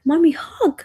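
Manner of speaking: put-on high little-kid plea; imitating toddler daughter. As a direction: ask for a cuddle like a tiny child. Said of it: "she's like".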